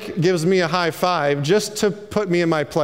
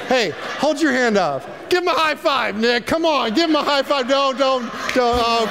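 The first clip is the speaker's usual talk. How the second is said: mocking shout; 6 semitones higher than usual. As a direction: egg Nick on to a high five. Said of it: "They thought".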